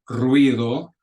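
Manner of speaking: ruido said slowly as ru-i-do, each vowel apart; two syllables. Shown as a demonstration. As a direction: split ruido into two beats. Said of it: "So it's two syllables".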